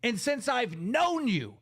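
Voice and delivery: heated, indignant rant with stretched emphasis; fed-up, accusatory tirade; real anger. Real, not acted. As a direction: lay into them, pitch jumping up on the accusations. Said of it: "I'm mad".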